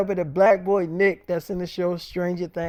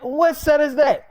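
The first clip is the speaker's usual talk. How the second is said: very high, slow, put-on voice; suspicious Nick; 9 semitones higher, 7 dB louder than usual. Nick questioning David's excuse, very high and slow. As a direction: squeeze it out slowly, pitched way up.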